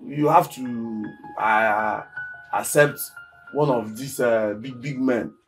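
low, soft and halting; conspiratorial scheming. Acted. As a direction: lay out the shady plan quietly, piece by piece. Lays out a shady scheme to her.

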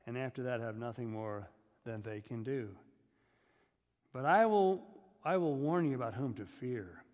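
measured, declaiming Bible reading; scripture reading. Acted. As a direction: read the verses out to the standing congregation. Reads scripture aloud.

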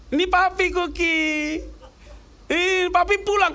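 put-on high, slow coaxing baby talk; dad talking to dog. Dad taking the phone to talk to the dog, high and coaxing. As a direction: coax the puppy, slowly. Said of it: "Saya ambil tuh handphonenya".

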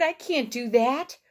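high-pitched storybook protest; shouted protest. A narrator's reading. Toad telling Frog he can't, high protest. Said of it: "shouted Toad".

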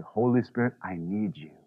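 hushed, low plea; soft prayer. Pretend. Preacher showing the congregation a hushed prayer. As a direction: pray it barely above a breath, dependent. A dependent heart praying.

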